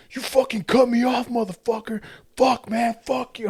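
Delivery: high squeaky mock of a raging driver; mock his yelling way up high; shrill parody of the tailgater cursing; angry driver. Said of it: "He's all".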